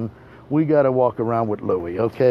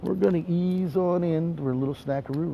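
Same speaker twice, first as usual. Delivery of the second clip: eased-down aside; 3 semitones higher, 7 dB quieter than usual. Acted. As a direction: drop the hype and slide in gently. Same words repeated, eased right down.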